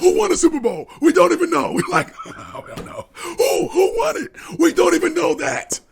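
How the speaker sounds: high, loud through laughter; high laughing disbelief. Real, not acted. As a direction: crack up while making the point. Laughing mid-argument.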